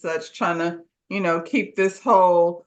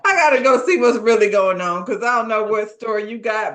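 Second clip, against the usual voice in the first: worried exit; 3 dB louder than usual. Retold or imitated. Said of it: "Marvin's like".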